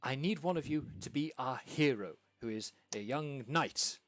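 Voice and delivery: fast, excited stammering impresario; lightly voiced flustered theatre manager; excited hostess. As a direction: babble the plan out breathlessly. GM voicing hostess casting roles.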